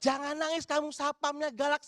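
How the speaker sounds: quoting the mother's slander with indignation; indignant requote. Retold or imitated. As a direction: throw the slander back in disbelief. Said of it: "saya diem gitu loh".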